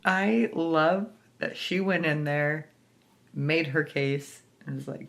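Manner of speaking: normal talking voice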